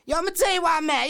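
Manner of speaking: agitated, insistent street rant; worked-up rant. Acted. Rapper answering why he's still mad, worked up. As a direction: launch into an angry tirade. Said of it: "if you please calm down".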